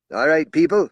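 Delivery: loud, high call to the crowd; strident call. Acted. Spokesman calling out to the assembled police. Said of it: "the strident voice of Mel Anderson".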